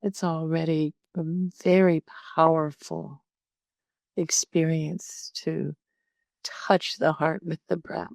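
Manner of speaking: calm meditation guide with long pauses; unhurried, conversational meditation instruction; guided meditation. Real, not acted. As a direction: talk listeners gently through settling in, leaving space between phrases.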